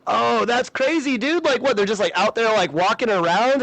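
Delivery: lightly voiced clueless curious guy; naive younger self. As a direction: play yourself as clueless and amazed. Mocking own naive younger self.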